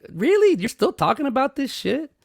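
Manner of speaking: mock outrage at an old meme; incredulous scoff. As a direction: retell it like you can't believe they still say that. Retold scoffing at meme posters.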